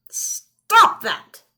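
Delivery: put-on high, loud old man's cry; cried out. Old man cries out at the ghoul, high and loud. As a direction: snap it out in alarm. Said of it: "cried the old man".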